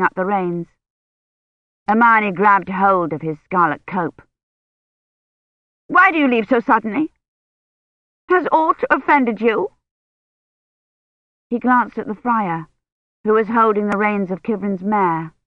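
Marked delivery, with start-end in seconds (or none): 5.9-9.7 higher, worried questioning; anxious lady. A narrator's reading. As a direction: press him for a reason. Hermione's voice in story.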